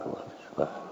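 breathless whispered question. Acted. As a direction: let it fade to a whisper. Third repeat drops to whisper.

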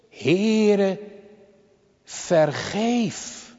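slow, drawn-out plea for forgiveness; solemn imitated supplication; prayerful plea. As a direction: plead it as a solemn prayer, word by word. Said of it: "Hij vraagt als eerste".

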